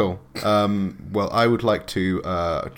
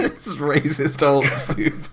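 slow, higher mock voice; 5 semitones higher, slower than usual. Player mocking the GM's soup line, in a silly slow voice. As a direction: drawl the phrase in a silly character voice.

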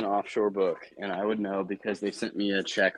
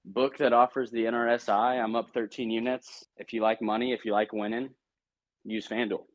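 promo read; 3 semitones higher than usual. Retold or imitated. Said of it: "I think you just be like".

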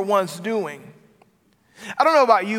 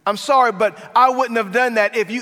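insincere blaming apology; 4 semitones higher, 6 dB louder than usual. Pretend. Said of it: "You don't say".

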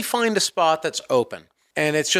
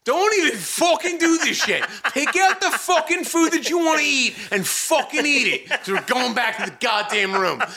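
retold furious yelling; 9 semitones higher than usual. To a sulking friend over breakfast, a high laughing furious yell. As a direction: yell it through laughter like you've lost all patience. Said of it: "I'm just like".

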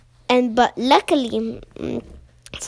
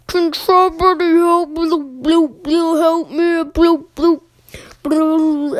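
higher, louder bubbly cry for help; underwater frog voice; 5 semitones higher, 5 dB louder than usual. Acted. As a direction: call out through bubbles. Froggy calls for help underwater.

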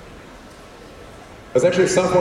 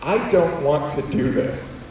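slow, deliberate retold protest; mild reluctant declaration; said out loud. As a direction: say it out slowly, word by word. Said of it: "literally saying out loud".

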